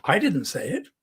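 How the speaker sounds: "I" set apart at the start; stress on I. Shown as a demonstration. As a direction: put the weight on "I". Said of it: "So two different meanings".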